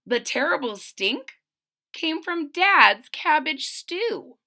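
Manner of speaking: rhyming picture-book read-aloud; storybook narrator; story narration. A narrator's reading. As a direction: read to young children, landing each phrase.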